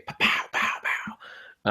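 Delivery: mock gun sounds. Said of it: "as Professor Gangster would say".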